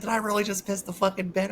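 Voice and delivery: high-pitched, incredulous self-questioning; retold disbelief. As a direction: replay the appalled discovery in a high voice. Acting out his disbelief at the accident.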